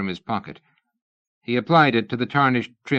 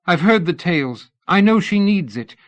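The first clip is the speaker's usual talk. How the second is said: much higher and louder, insistent; 9 semitones higher, 7 dB louder than usual. A narrator's reading. Missus Tournachon insisting to Fraser, higher and louder. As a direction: push past the guard.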